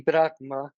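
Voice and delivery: Brahma stressed on "Brah", unaccented "ma"; Brahma, weight on the opening syllable; stress on first syllable. Shown as a demonstration. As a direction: say Brahma without the final accent. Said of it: "es el primer logo".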